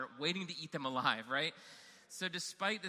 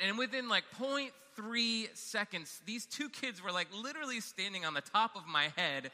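breathless storyteller at the climax; excited retelling; 5 semitones higher than usual. Retold or imitated. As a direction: tell it like it's happening right now. Climax of the canoe flip.

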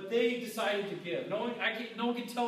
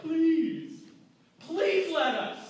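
high, loud pleading please; eager believers begging Paul to let them give; begging Macedonians; 9 semitones higher, 7 dB louder, much slower than usual. Retold or imitated. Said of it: "He says they're begging".

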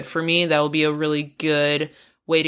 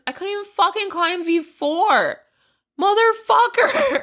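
laughing; 14 semitones higher than usual. Real, not acted. Laughing at own bad climbing.

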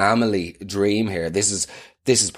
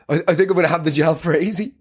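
laughing date; 5 semitones higher than usual. Retold or imitated. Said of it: "She started laughing again".

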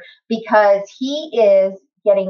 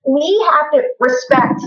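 getting emotional; 5 semitones higher, slower than usual. Real, not acted. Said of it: "Oh, see, I get emotional".

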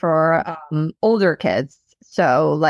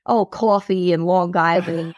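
Long Island accent. Shown as a demonstration. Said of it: "code switch in professional environments and try not".

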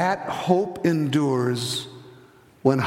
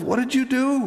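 high, wondering demand; acted nurse in amazement, pitch leaping up; retold astonished nurse; 9 semitones higher than usual. Nurse marvels at teacher's effect on boy, high and astonished. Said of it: "The nurse comes up to her in the hall and says".

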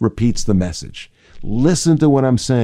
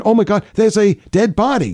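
higher-pitched gasp of discovery; acted surprise; 9 semitones higher than usual. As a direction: stumble on something you didn't expect, voice jumping up. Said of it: "I don't expect that".

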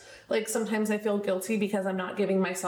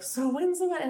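lightly mimicked nosy question, pitched up; higher, mildly mocking quoted question; imitating eager askers; 8 semitones higher than usual. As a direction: imitate everyone pestering, in a higher voice. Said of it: "everyone's like".

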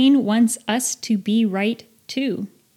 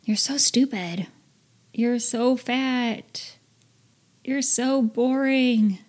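a hushed, slow, mean inner voice putting yourself down; half-whispered self-insult; harsh inner critic; 4 semitones higher, slower than usual. Retold or imitated. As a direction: whisper the insults like a cruel voice in your head. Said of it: "You may catch yourself saying something like".

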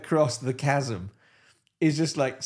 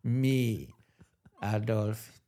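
softer, lower dark confession; hushed dramatic reveal; 3 semitones lower, 5 dB quieter than usual. Pretend. Hitler confessing the animals' betrayal, hushed dark voice. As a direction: let it drop like a grim secret.

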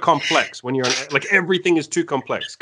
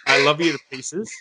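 mock serious. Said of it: "so serious".

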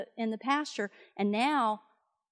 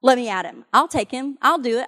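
eager volunteer; 8 dB louder than usual. Retold or imitated. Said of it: "he's like".

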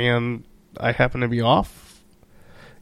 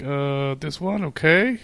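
put-on unsure kid; 3 semitones higher, slower than usual. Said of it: "And he's like".

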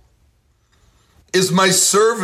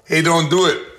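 a light mock call across the pumps; half-hearted shout at a stranger; mild retold yell. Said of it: "So I yelled out at the guy".

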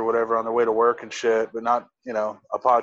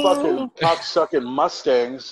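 angry outburst; 4 semitones higher, slower than usual. Real, not acted. Annoyed by passing cars.

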